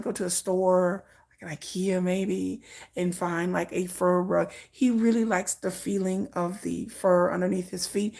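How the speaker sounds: lightly voiced assistant, quiet and earnest; a hint of a serious assistant pleading nicely; mock serious assistant. Assistant asking a runner for a fur rug, quietly earnest. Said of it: "That's how they be talking".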